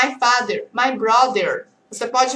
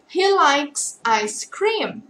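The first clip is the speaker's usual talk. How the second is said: "he likes ice cream" drawn out word by word; very slow model answer; much slower than usual. Shown as a demonstration. Teacher modelling the positive answer very slowly.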